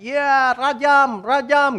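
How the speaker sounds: high, slow, drawn-out yell of rajam; bay for blood like a mob; crowd yelling. Retold or imitated. Preacher imitating the crowd demanding stoning, high drawn-out yell. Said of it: "Orang teriak-teriak".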